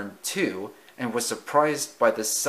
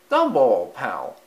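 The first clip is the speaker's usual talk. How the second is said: cheerful greeting; 7 dB louder than usual. Acted. Timothy greets Dumbo.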